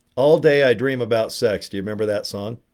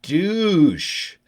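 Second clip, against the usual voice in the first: mock advice to a kid; 4 dB louder, slower than usual. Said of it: "and I'm like".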